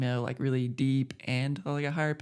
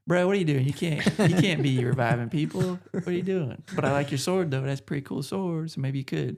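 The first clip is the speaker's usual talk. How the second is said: Dormin impression; 2 semitones higher, 3 dB louder than usual. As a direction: play the god as a casual bro. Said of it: "this is how he talks".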